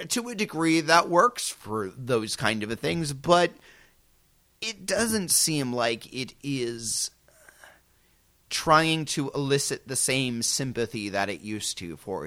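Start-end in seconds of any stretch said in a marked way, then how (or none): 4.6-7.1 slow hushed whisper. Real, not acted. Trailing thought, hushed.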